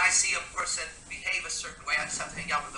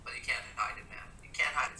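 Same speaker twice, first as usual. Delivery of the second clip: hushed emphasis; 5 semitones lower, 10 dB quieter than usual. Real, not acted. Emphatic point, whispered.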